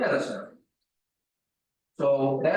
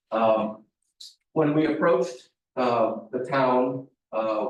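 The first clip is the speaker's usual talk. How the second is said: talking through a face mask; muffled by a face mask. Real, not acted. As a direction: speak from behind a face mask. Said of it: "I apologize for wearing the mask".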